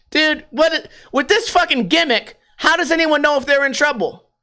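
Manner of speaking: high-pitched baffled complaint; retold incredulous protest. Customer protesting waiter's gimmick, incredulous. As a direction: argue back in exasperated disbelief.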